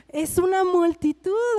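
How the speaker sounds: slow, mildly exasperated protest; desperate protest. Acted. Jairo reacting to Jesus stopping in the crowd, mildly desperate. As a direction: draw it out with a touch of desperation. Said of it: "Así desesperado".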